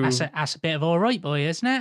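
loud, badly faked Norfolk accent; hammed-up country accent, badly done; attempted country accent. Shown as a demonstration. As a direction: have a clumsy go at Norfolk accent. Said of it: "you are bad at accents".

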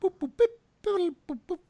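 high beeping computer noises; robot voice. Pretend. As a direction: mimic a machine computing. Random number generator sound effect.

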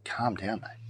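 soft, easy and unbothered; calm, not angry. Retold or imitated. Telling an angry coach to settle, softly and calmly. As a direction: say it low and offhand, no anger at all. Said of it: "I wasn't angry or anything".

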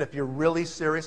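quietly serious challenge; firm posture. Retold or imitated. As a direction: put it softly but without pleading. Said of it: "can you guys hear my posture".

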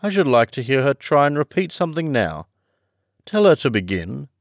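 high, loud creature voice; Mock Turtle.

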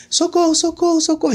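high, far-off cry of socorro; mother crying for help. Retold or imitated. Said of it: "escutei minha mãe falar assim".

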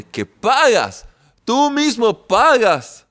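slow, loud and high on pagas; emphatic preaching. Real, not acted. Preacher warning listeners that they pay for lies, slow and loud. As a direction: drive home who pays.

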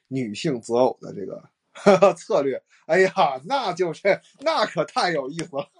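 trying not to laugh. Real, not acted. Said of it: "我忍不住了啊".

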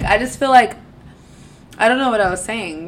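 tipsy, losing the thread. Real, not acted. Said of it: "'cause I'm drunk".

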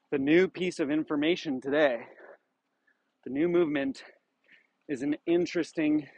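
breathless from walking uphill; panting a little between phrases; out of breath. Real, not acted. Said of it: "if I sound like I'm out of breath".

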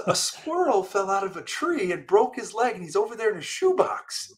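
high-pitched imitation of a lady; high mock-distressed report; frantic lady caller. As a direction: mimic her squirrel emergency in a high voice. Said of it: "She goes".

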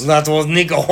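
hammed-up French accent with a silly "hon" laugh; mock French accent. Co-host naming the partner in the sign-off, mock French accent. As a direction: play it as a cartoon Frenchman. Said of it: "doing French accents for everybody's voice".

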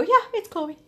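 high, amused voice with a laugh in it; laughing reply. Retold or imitated. Staff confirming the treatment glows, laughing. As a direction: answer as if it's funny too.

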